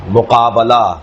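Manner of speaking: مقابلہ as mu-qaa-ba-la, open "a" on the ba; model word pattern. Shown as a demonstration. Teacher giving another example, model pronunciation of مقابلہ with "ba". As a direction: sound out مقابلہ with "ba", not "bi". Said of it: "اس وزن کے اوپر".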